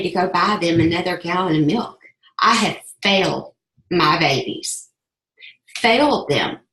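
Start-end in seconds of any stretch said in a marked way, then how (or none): 2.4-6.6 fighting back tears on the words; choked up. Real, not acted. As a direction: voice catching with tears. Tearful memory of failing kids.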